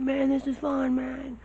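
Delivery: very high yelled call over rushing wind; high strained shout mid-air. Retold or imitated. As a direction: yell so he can hear you up there. Repeats yelling over wind.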